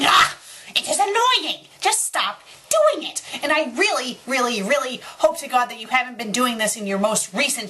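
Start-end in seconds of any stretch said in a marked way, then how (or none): 0.0-0.4 loud, high cry of exasperation; short exasperated shout; frustrated yell. Real, not acted. Exasperated outburst at author's notes. 0.8-3.2 high-pitched, fed-up outburst; annoyed, voice pitched way up; exasperated rant. Real, not acted. Rant at intrusive author's notes.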